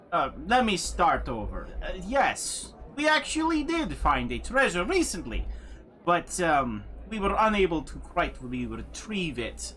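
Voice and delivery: high, eager put-on voice for the adventurer; smarmy adventurer. GM voices the treasure-hunting NPC.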